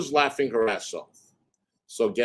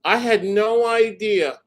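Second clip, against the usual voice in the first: higher, slow, mocking her fake surprise; mock innocent voice; 6 semitones higher, 5 dB louder, slower than usual. Mocking the ex playing innocent about court. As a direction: play dumb in a sing-song.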